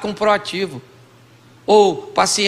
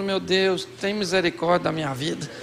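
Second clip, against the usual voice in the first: mock plea to God; 2 semitones lower, 4 dB quieter than usual. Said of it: "Eu falo".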